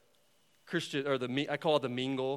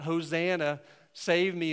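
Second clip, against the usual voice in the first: joyful praise; 2 semitones higher, slower than usual. Pretend. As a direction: shout it in praise. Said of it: "those that are living in the light can cry out".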